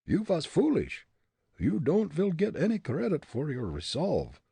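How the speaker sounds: put-on high comic German accent. A narrator's reading. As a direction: warn him in thick stage German. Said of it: "Fritz's German dialect".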